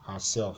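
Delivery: "herself" with the weight on SELF; stress on SELF. Shown as a demonstration. Teacher giving the second example, stress on SELF. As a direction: stress the last syllable of "herself". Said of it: "the stress will be on this part here".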